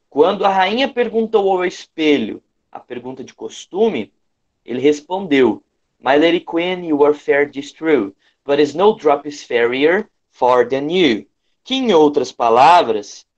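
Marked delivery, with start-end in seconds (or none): none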